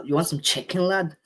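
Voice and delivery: a lightly done mock Liverpool Scouse voice; tossing off a playful Scouser lad impression; Scouser accent. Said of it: "Scouser, uh, accent".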